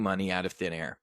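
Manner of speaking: hushed unvoiced aside on the Fed; whisper. Host to viewers, whispering the punchline. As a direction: whisper it like a secret. Repeating the thin-air money line.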